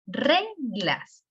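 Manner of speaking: "reglas" as RE-glas, high RE then falling; correct first-syllable stress. Shown as a demonstration. Teacher giving the right version, "reglas" stressed on RE. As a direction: lean hard on RE in "reglas", drop on glas. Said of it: "pero sí".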